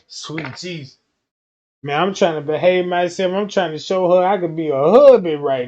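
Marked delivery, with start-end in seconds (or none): 0.0-1.0 overwhelmed. Retold or imitated. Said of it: "you sweating hormone like".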